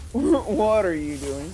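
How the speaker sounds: incredulous. Real, not acted. Repeated incredulous, louder and slower.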